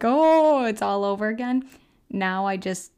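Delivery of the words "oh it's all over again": shocked. Retold or imitated. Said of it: "it's like".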